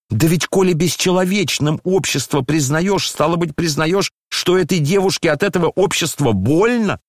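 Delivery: a lightly voiced indignant general's wife; indignant old lady. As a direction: berate them like an outraged grand dame. Narrator voices Lizaveta Prokofyevna.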